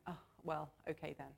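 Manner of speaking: mildly grudging, resigned agreement; grudging consent. Acted. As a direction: give in half-heartedly, voice sinking. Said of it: "This is not a grudging thing".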